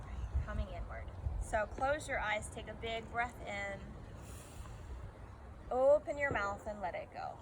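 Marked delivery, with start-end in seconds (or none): 1.4-7.3 calm breathing cues with long pauses; guided meditation. Acted. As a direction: guide them gently into the breath, pausing between cues.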